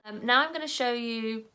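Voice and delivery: ordinary talk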